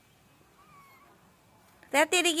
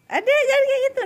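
sharp warning; 10 semitones higher, 4 dB louder, faster than usual. Real, not acted. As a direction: call out to stop the rough handling. Parent scolds child handling kitten.

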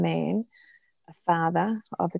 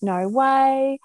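a retold "No way" in amazement, higher and louder; surprised gasp; 6 semitones higher, 6 dB louder than usual. Cousin hearing about his blind son, astonished. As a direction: caught off guard by the news. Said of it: "And she went".

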